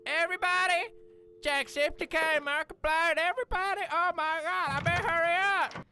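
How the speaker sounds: high, loud, hurried mock excitement. Racing off to the party, hammed-up excitement. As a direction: gush like you're late to the party.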